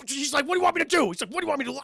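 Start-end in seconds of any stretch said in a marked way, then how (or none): 0.5-1.1 high, loud mock protest; exasperated. 1.3-1.8 exasperated. Retold or imitated. Same protest repeated.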